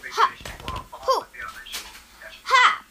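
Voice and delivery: high bouncy hop; playful. Pretend. Child acting a frog hopping, high and bouncy. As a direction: bounce on the word.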